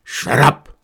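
sharp command. Acted. Outlaw boss silencing his laughing gang, sharp shout. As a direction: cut the laughter off hard.

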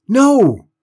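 high, loud desperate shout; loud yell. A narrator's reading. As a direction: scream it to stop him. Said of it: "John Robert yelled".

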